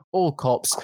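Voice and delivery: slow, low mock Scottish accent; a Scottish accent that drifts toward pirate. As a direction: drawl it out in a put-on Scottish brogue. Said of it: "I like to do it in that Scottish voice".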